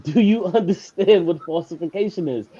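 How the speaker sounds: laughing mid-question. Real, not acted. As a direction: break into a laugh on "understand". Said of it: "I'm sounding like a robot at this point".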